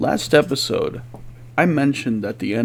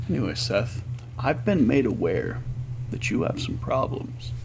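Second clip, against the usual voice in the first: soft therapist voice; 7 dB quieter than usual. Pretend. Therapist role, soft and slow.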